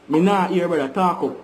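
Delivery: "Me not hear, brother" called loud over the call. Real, not acted. The friend is too faint, so he calls out loud. Bad line, asks for louder speech.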